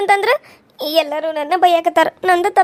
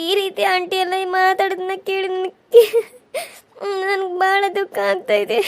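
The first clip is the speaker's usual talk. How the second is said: crying. Acted. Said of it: "ಯಾರು ಅಳತಾರು?".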